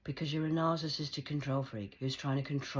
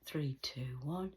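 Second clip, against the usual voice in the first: whispered countdown; 4 dB quieter, slower than usual. Retold or imitated. Secret countdown signal.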